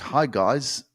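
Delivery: a lightly voiced bland, polite host; mock soft podcast voice. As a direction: mildly mimic a tame, nice podcaster. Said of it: "you want me to do the podcast like".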